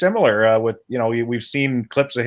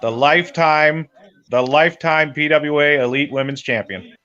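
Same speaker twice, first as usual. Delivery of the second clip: wrestling commentator; 3 semitones higher than usual. Real, not acted. Proclaiming the new champion.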